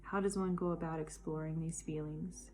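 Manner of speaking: measured poetry reading in connected phrases; poem recitation. Acted. Poet shares her poem on loneliness with listeners, reciting. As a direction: recite it as a heartfelt personal poem. Reads own poem aloud.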